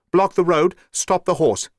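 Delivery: commanding yell to Watson on the road; urgent shout. A narrator's reading. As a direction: shout to stop the runaway horse. Holmes orders the runaway cart stopped.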